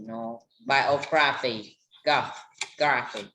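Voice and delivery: "biography" slowed, then GRA picked out alone before "graphy"; student working out the stress as bio-GRA-phy. Shown as a demonstration. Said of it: "So the stress".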